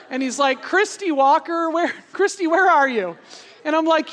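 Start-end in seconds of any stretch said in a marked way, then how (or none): 0.6-3.2 higher, mock public call for someone. Camp speaker calling Christy up in front of everyone, raised searching call. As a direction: imitate a speaker searching the crowd by name. Speaker calls her out from stage.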